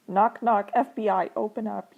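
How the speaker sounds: loud, punchy pretend FBI announcement; mock police raid. Reader pretends to be FBI interrupting a kiss, mock command.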